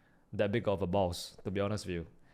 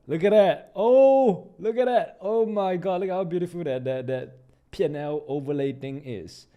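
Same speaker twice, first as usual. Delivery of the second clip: much higher, louder delighted squeal; thrilled; 5 semitones higher, 5 dB louder than usual. Real, not acted. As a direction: gasp with delight at the new overlay. Thrilled by P and L cam.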